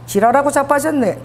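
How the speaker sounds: "지랄하고 자빠졌네" in Busan dialect with a laugh, stress on 자빠졌네 falling; tossed-off Busan scolding, half laughing; laughing Busan retort. Pretend. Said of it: "그러니까 이게 부산 말은".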